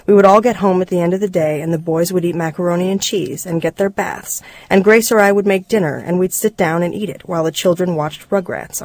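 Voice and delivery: measured memoir reading; story narration. A narrator's reading. Reader telling listeners of the broken family, story narration. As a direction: read it as a reflective story, phrase by phrase.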